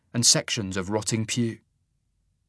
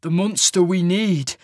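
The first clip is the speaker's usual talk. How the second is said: grim, raised voice; grim reply; 7 semitones higher, 3 dB louder than usual. A narrator's reading. Cole answering Sasha's fear of the monster, grimly. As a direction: answer her with grim resolve. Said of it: "Cole replied grimly".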